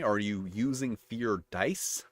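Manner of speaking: "fear dice" drawn out slowly, rising at "dice"; slow down and lift "dice" into a question; plural DICE questioned. Shown as a demonstration. Reader contrasting dice wordings, "dice" slowly questioned. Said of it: "this is why there's important distinctions".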